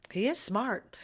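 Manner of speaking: whispered, dry sarcasm; sly whispered jab; sarcastic whisper. Real, not acted. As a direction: whisper it like a wry secret. Sarcastic aside about Trump.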